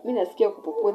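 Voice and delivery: retold snapping at a friend; irritated snap. Snapping at friend during labor.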